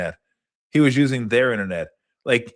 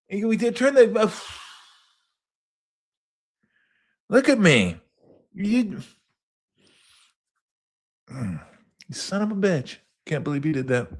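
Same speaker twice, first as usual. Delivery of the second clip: high outraged voice; 10 semitones higher than usual. Retold or imitated. Continuing the outraged voice.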